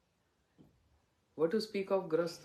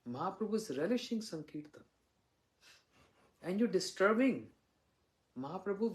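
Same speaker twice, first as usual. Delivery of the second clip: mock scolding; 3 semitones higher than usual. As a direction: snap at the wife to hush, hammed-up. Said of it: "chastised his wife".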